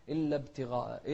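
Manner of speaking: ابتغاء with the ب closed dead, no bounce; mispronunciation demo. Shown as a demonstration. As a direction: swallow the release of ب in ابتغاء. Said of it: "في ناس تقول".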